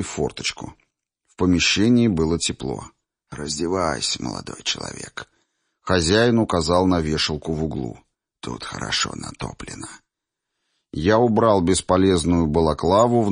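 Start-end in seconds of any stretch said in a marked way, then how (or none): 3.3-5.3 put-on old man voice. Old host greets narrator. 8.4-9.9 put-on old man voice. Old host speaks.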